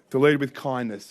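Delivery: "kindness" pressed home as the key word; stress on kindness. Real, not acted. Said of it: "I stress that word kindness".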